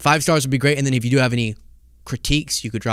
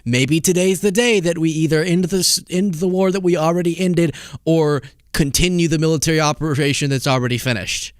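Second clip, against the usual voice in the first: higher-pitched, hurried-sounding parody of a president; mock president; 6 semitones higher than usual. Host parodying the president leaving for his generals, mock self-important. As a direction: put on a higher voice for the president's excuses. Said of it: "he's saying".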